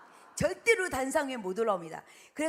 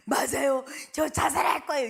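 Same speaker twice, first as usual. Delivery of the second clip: loud desperate crying cry; boy crying out in despair; tearful shout; 4 semitones higher, 8 dB louder than usual. Retold or imitated. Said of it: "이러면 어떻게 해요?".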